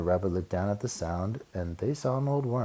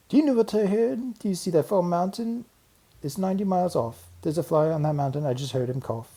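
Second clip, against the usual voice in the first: much higher, quick excited rabbit; high cocky rabbit; bragging rabbit; 10 semitones higher, 4 dB louder than usual. Acted. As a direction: show off, thrilled.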